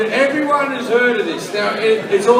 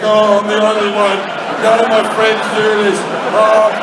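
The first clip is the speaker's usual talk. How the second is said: a louder, fast, anguished moan of shame; ashamed lament; 5 dB louder than usual.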